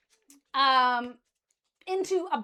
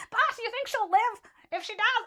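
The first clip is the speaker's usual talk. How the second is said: higher, lightly voiced demon lackey; a cackling little henchman asking the boss; lightly voiced minion; 8 semitones higher than usual. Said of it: "they're going".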